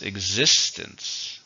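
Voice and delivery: Existence said slowly, syllables drawn apart; slow teacher model of Existence. Shown as a demonstration. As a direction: stretch out Existence, stress on the second syllable. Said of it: "How many syllables?".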